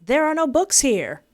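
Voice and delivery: high, frightened, tripping over the words; scared stutter. Acted. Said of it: "I speak stutteringly".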